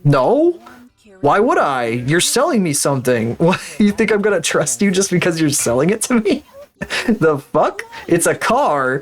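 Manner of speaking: incredulous retort, pitch rising; mock indignant. Buyer refusing to trust the salesman, mock indignant. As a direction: scoff at the very idea, mildly hammed-up. Acted retort to pushy car dealer.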